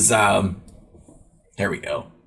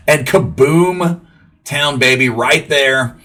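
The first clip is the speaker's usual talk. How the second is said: hyped home run call; 3 semitones higher, 3 dB louder, much slower than usual. Real, not acted.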